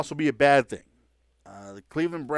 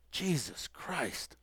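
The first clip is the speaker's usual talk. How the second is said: slow, much softer muttered curse; under his breath; 12 dB quieter, much slower than usual. Retold or imitated. Brady hearing the reporter's question, cursing under his breath. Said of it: "under his breath".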